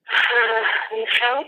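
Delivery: breaking into quiet tears; tearful. Real, not acted. Witness after recounting the shooting, tearful.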